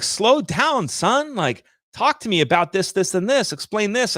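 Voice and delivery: high-pitched mock engineer, slow down son; imitating a fussy engineer. An analytical engineer telling the speaker to slow down, mock voice. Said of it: "an engineer's like".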